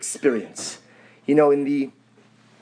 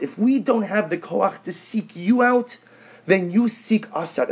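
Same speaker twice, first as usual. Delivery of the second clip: earnest plea pitched higher, stretching key words; supplicative plea; 4 semitones higher than usual. Acted. Lost soul begging God to seek us out, supplicative plea. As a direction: plead upward to God, insistently. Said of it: "that supplicative plea".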